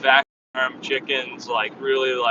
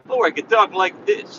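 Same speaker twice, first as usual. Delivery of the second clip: higher voice with added tone; putting on tone; 6 semitones higher than usual. Shown as a demonstration. Driver demonstrating a livelier tone for partner, raised pitch. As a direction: lift the pitch to show some variety. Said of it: "talking a little differently when I have a little tone".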